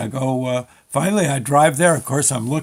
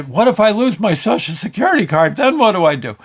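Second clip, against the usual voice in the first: high, loud worried questions; acted panic; 4 semitones higher, 3 dB louder than usual. Man imagines losing his card before the DMV, acted panic. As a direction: fret aloud in mock panic. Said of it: "in, in panic mode".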